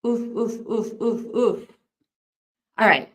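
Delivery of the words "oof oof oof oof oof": repeated oofs. Real, not acted. Reacting to the disturbing murder case.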